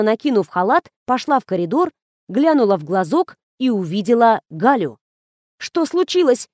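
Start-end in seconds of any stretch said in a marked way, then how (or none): 5.6-6.5 frightened. A narrator's reading. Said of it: "испугалась хозяйка".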